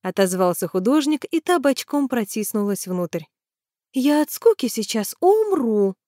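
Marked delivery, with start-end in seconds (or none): 3.9-6.0 slow, higher whiny complaint; complaining. A narrator's reading. Tanya complains to Alexey, slow and whiny. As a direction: moan about boredom, slowly. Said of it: "пожаловалась она".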